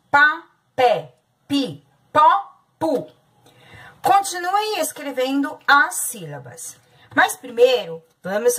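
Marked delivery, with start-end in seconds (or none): 0.1-3.1 pá, pé, pi, pó, pu each said loud and clear as a separate syllable; chanting the syllables to children; syllables spelled out loud. Shown as a demonstration. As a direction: sound out each syllable pá, pé, pi, pó, pu for the class.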